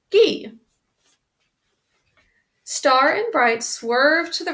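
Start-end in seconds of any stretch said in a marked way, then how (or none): 0.1-0.6 high, loud turning call; shouted command. A narrator's reading. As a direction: bellow the turn to the steers. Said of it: "cracked his whip and shouted".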